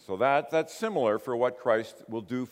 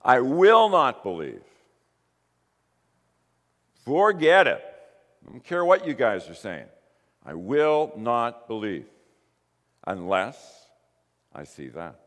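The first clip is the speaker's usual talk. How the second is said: stubborn refusal; 7 dB louder than usual. Acted. Thomas's defiant refusal voiced.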